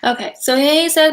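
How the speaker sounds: ordinary talk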